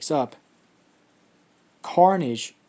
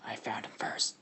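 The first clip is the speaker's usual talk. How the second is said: Carnage growl; 2 semitones lower, 10 dB quieter than usual. Acted. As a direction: growl it softly, almost all breath. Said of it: "Carnage kinda growls, and he's like".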